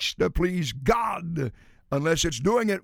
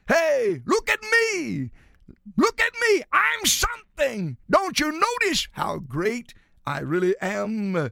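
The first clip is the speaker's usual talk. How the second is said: much higher, preening show-off voice; boastful flesh; 4 semitones higher than usual. Acted. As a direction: squeal for attention like a vain child. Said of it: "There is a cry for self-exaltation".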